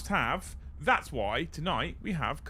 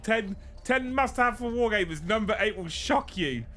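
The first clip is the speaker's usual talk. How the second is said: clickbait video narrator; 5 semitones higher than usual. Retold or imitated. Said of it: "I went for clickbait title".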